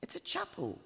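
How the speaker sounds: lightly voiced old woman, chattering on; a hint of a nattering godmother at a wedding; old friend chatting up the best man, gossipy; chatty old gossip. Narrator voices chatty Missus Teach.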